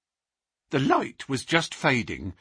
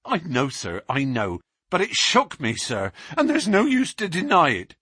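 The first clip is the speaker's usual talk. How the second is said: high, louder, breathless with remembered fear; the policeman reliving the face at the window; terrified constable; 8 semitones higher, 3 dB louder than usual. Acted. Constable Walters telling Baines and Holmes of the beast, high and terrified.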